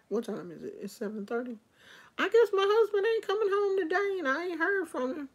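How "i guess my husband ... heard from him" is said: high, fast, whiny voice; high fast griping; high-pitched complaint. Real, not acted. Complaining husband not home.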